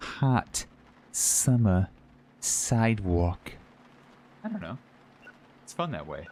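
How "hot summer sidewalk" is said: loud, raised cartoon-character voice. Quoting a cartoon line back at another speaker: Francine from American Dad voice. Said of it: "when Francine in American Dad says".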